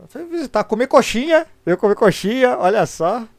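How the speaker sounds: high, loud teasing singsong; mock high voice. Real, not acted. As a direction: tease him in a high voice. Mocking friend's trip.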